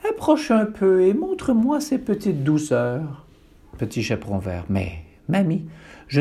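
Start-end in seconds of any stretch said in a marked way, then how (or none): 0.1-3.3 plus fort. Acted. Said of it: "Plus fort".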